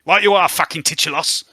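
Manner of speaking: put-on high, loud cockney girl snapping at the radio; squeaky street urchin, loud and rude; Spring's voice. Spring griping at the truck radio, high and loud.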